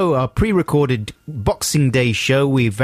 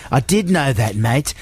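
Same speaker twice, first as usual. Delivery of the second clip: hammed-up Aussie mate; broad mock Australian tale-telling; put-on Australian accent; 3 semitones higher than usual. Telling a mate about the fairy lights, Australian accent. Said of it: "authentic Australian friend Adam".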